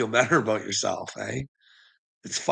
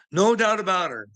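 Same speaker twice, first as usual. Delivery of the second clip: No doubt about her, said much higher; higher excited repeat; 9 semitones higher than usual. Shown as a demonstration. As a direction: lift the second No doubt about her up high.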